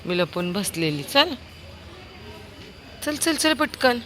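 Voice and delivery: high, loud playful call; calling the dog. Real, not acted. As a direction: call the dog over, come here. Calling dog found hiding.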